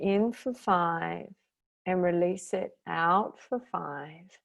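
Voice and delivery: unhurried meditation guide with long pauses; calm, spacious relaxation-class delivery; guided meditation. Real, not acted. Leads guided breathing meditation.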